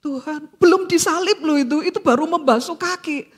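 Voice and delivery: mildly voiced moved prayer to the Lord; tearful prayer. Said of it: "Aku nangis waktu itu".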